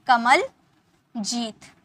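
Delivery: कमलजीत stretched slowly as one joined word; drawn-out name. Shown as a demonstration. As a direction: pronounce कमलजीत slowly so both names are heard. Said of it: "दो नाम एक साथ मिलके बने हैं".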